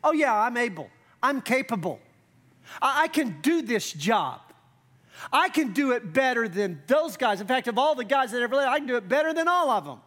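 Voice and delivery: cocky mock brag, speeding up at the end; mock boastful hubris. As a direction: puff up like a know-it-all disciple. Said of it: "Listen to the hubris here".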